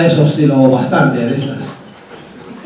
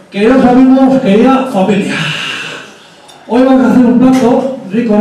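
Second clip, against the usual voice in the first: Arguiñano impression; 3 semitones higher than usual. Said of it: "arguiñano diría algo así como".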